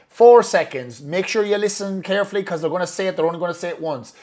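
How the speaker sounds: urgent countdown. Retold or imitated. Coach warning a client to listen carefully, urgent.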